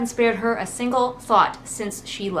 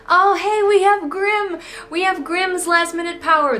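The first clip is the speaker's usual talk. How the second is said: sudden loud, high burst of delight; excited; 9 semitones higher, 4 dB louder than usual. Real, not acted. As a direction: blurt it out, thrilled by the twist. Excited reaction to book twist.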